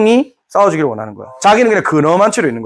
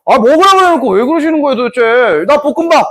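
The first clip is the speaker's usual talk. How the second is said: mock griping; 5 semitones higher than usual. Acted insolent noble griping over order.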